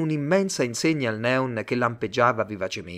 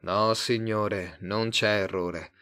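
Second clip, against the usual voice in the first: slow, settled, calmer; slow down and reassure; slower than usual. Acted. Tate to Simon after catching breath, slow and calmer. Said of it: "continuò in tono più calmo".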